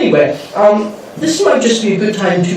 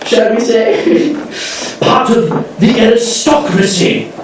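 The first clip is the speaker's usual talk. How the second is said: pompous aristocrat, swooping pitch, drawn-out key words; Benjamin Wickerdent; 4 semitones higher than usual. Acted. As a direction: play a haughty, grandiose lord who relishes ceremony. Plays pompous gentleman from eighteen hundreds.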